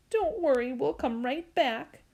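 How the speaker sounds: put-on reassuring little child. Joey tells By they'll return, childlike comfort. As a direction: reassure him in a small child's voice.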